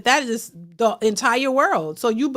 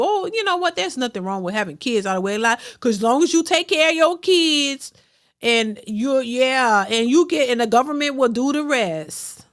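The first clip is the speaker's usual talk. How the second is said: mock enabler voice. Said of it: "lie to you and tell you".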